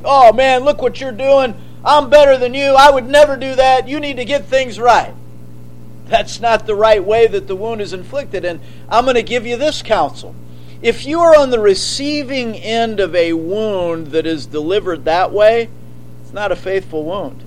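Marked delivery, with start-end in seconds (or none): 0.0-5.1 haughty quote. Pretend. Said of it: "Not haughtily or proudfully or arrogantly". 16.2-17.4 soft warning. Shown as a demonstration. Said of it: "repeats the phrase".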